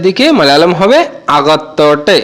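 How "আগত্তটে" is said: আগত্তটে with a Malayalam tone and a rising end; আগত্তটে spoken like a Malayali, rising at the close. Shown as a demonstration. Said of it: "এরকম কিন্তু বলতে হবে".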